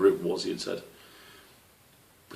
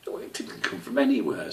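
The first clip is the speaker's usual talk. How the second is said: exclaiming; 3 semitones higher than usual. A narrator's reading. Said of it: "Squish exclaimed".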